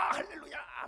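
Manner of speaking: unvoiced, falling hallelujah; breathy echo shout. Congregant whose wish came true, breathy echoing shout. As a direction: let the second hallelujah fall away in a breathy shout. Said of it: "막 이럽니다".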